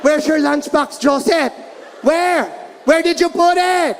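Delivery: rising to a high shriek; mom shrieking. Retold or imitated. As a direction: go up and up like an angry mom. Mom interrogating kid again.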